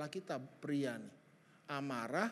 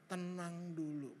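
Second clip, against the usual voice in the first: calming down; 6 dB quieter, slower than usual. Shown as a demonstration. Models calm instead of snapping.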